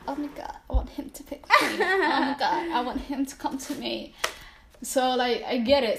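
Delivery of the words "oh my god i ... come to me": mock-swooning younger self, pitched up; higher, hammed-up teenage yearning; lovestruck younger self. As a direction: play a hopeful girl with a crush, laughing a little. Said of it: "when I was younger, I was all about that".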